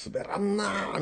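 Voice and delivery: soft drawn-out mock of a flat quip; mock deadpan quote. Host retelling the girl's party line, soft mock deadpan. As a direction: quietly mimic the girl's lame line. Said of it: "ほんまに言うてましたもんね".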